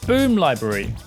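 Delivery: ordinary talk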